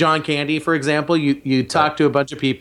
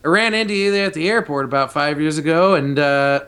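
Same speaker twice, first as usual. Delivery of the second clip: a light hint of Bruce Campbell's voice; barely shifted, mostly his own voice; Bruce Campbell impression; 2 semitones higher than usual. Podcaster doing a light Bruce Campbell impression. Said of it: "This is my Bruce Campbell impression".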